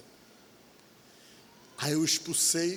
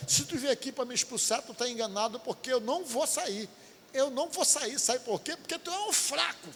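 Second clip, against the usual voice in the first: much higher, taunting demon voice; possessing demon taunts, higher voice; demon's voice; 8 semitones higher than usual. Retold or imitated. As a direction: voice the spirit mocking the preacher. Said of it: "A pessoa que tava nela".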